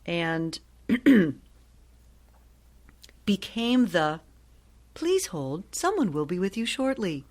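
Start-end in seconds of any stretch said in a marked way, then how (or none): 4.9-7.2 polite recorded hold message; phone system voice. Shown as a demonstration. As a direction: read it like a phone hold prompt.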